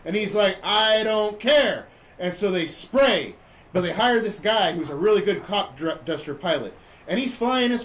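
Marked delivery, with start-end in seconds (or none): 0.6-1.9 slow, drawn-out mock refusal; defiant dismissal. Mayor brushing off the warning about spraying, defiant dismissal. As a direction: drag it out stubbornly.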